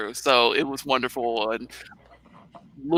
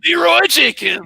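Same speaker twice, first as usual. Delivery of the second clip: high, loud battle cry; Leroy Jenkins; 12 semitones higher, 5 dB louder than usual. Acted. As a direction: holler it as you charge into the fight. Imitating a famous gamer battle cry.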